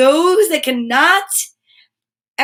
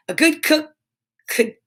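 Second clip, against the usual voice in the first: whispered practice; 5 semitones higher than usual. Real, not acted. Tongue twister muttered to self.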